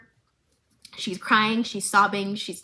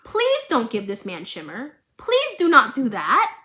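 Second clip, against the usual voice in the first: pleading; 3 dB louder than usual. Real, not acted. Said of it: "pleading with the show".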